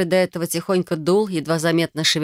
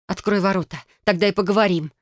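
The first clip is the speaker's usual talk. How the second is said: demanding; 3 semitones higher than usual. Acted. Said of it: "потребовала я".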